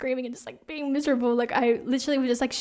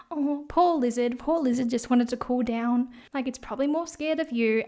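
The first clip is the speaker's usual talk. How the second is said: mocking followers. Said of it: "Everyone was just like".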